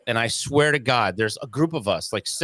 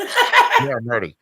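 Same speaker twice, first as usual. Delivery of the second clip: giddy laughing answer to dad; laughing yes; 5 dB louder, slower than usual. Retold or imitated. Eager reply, laughing on the bike.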